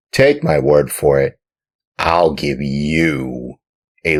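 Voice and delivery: loud stern farmer. A narrator's reading. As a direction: threaten the boy loudly. Farmer threatens.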